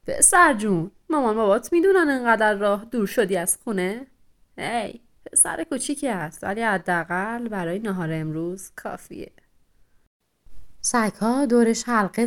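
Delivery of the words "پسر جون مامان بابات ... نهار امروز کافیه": hunting dog toying with its prey; lightly voiced sneering dog, fading to a mutter; menacing hound.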